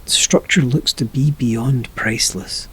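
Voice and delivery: slow, measured meditation narration with long pauses; guided meditation. Acted. Narrator leading a listener down into an imagined room, guided meditation. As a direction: paint the scene unhurriedly, phrase by phrase.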